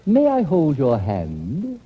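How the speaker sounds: slow, tender request; suitor's gentle plea. Acted. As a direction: ask slowly like a courting gent. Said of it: "after a while I say".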